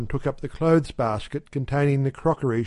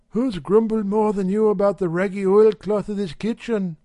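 higher, sly and purring wife; insidious cat-like voice; 7 semitones higher, 3 dB louder than usual. A narrator's reading. Wife slyly answering her grumbling husband, cat-like and insidious. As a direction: coax him like a cat toying with a mouse. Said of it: "insidious, cat-like voice of the wife".

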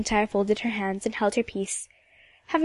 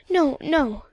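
higher, slightly hasty protest; hurried denial; 4 semitones higher than usual. Acted. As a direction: deny it with mild haste. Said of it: "said Emily hurriedly".

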